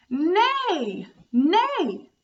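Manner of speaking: high whinnying neigh; playful horse call for kids. Shown as a demonstration. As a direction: neigh like a pony. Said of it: "This animal goes".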